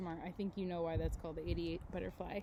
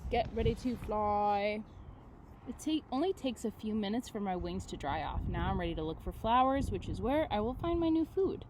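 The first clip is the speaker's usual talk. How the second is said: put-on reading to children. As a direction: read it gently to the class. Reads book aloud to class.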